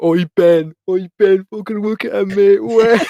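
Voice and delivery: calling to Ben, cracking up; laughing call-out. Retold or imitated. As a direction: shout him over between laughs.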